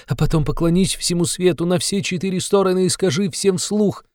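high, fervent urging; plead, shaking with ecstatic conviction; trembling fervor. A narrator's reading. Sonya urging Raskolnikov to confess, trembling fervor. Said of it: "спрашивала она его вся дрожа".

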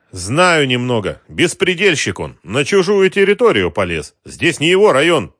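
gang boss. Acted. Wholesaler sneers at the rival gangster, contemptuous. Mamed speaking.

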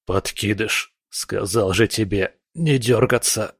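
raspy, coughing scold; hoarse. Acted. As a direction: rasp through a cough. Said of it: "хриплое".

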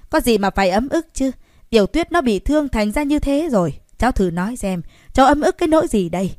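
put-on loud, high, furious old man, rushing at the end; angry scolding. A narrator's reading. Grandfather berating the young man, furious shout. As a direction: berate him, voice climbing.

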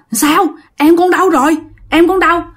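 high-pitched worried questions; anxious questioning. Acted. Mother asks son where his sibling is, anxious.

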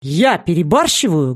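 indignant, incredulous question; angry exclamation. A narrator's reading. Shapeshifter snapping back at Eric, indignant cry. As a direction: throw the question back, offended. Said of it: "Гневный возглас Скэна".

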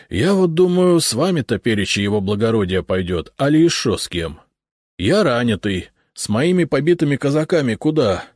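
lightly voiced rough provincial урядник, sighing; a hint of a tired wounded cossack; weary cossack урядник. Wounded урядник recounting the ambush, lightly voiced and weary.

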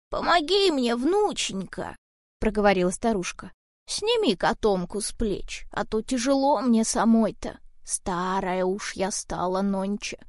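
a hint of a frail old woman pleading. Old woman asks for help. (слегка старушечий голос, медленно)

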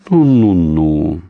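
slow, soft, calming hum; soft soothing. A narrator's reading. Kremnyov calms bound Orlova, softly. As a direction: soothe her gently, drawn out. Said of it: "мягко проговорил Кремнёв".

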